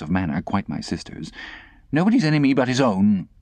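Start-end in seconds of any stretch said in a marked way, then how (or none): 1.9-3.3 put-on prim old lady. Camilla speaking.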